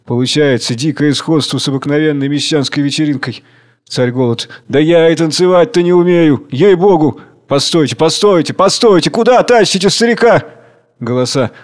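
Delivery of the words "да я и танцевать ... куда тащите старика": a hint of good-natured laughter; laughing protest. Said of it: "также смеясь".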